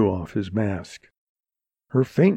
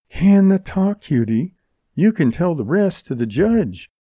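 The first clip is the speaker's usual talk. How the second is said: higher, slangy brush-off; dismissive heroine; 8 semitones higher than usual. Acted. Jerry won't hear Montgomery's protests, dismissive. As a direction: shut him up with breezy scorn.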